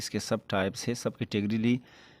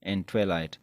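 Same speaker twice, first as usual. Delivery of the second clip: skylight and twilight stretched out very slowly; slow example words; much slower than usual. Shown as a demonstration. Teacher giving rhyme example to students, very slow and deliberate. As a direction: lay out each word slowly so students hear the rhyme. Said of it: "For example".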